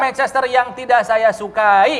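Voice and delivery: football commentator. Pretend. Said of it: "kalian harus komentarin ala-ala komentator bola".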